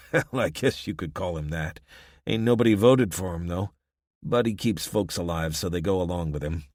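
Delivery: a lightly voiced wary local; weary small-town man, half-reluctant; rough townsman voice. Gruff townsman tells about Dimitri.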